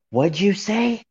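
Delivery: high, rising imitated question; mock affronted challenge. Chat members challenging his remark, mock affronted question. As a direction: mimic their offended disbelief, pitch climbing.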